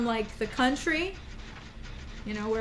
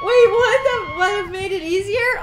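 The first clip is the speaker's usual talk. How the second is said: surprised; 10 semitones higher, 11 dB louder than usual. Retold or imitated. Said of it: "and I was like".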